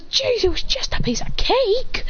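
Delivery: slow, high dazed whine; dazed complaint. Acted. Boy blasted through walls, slow high whine. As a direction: whine from the rubble.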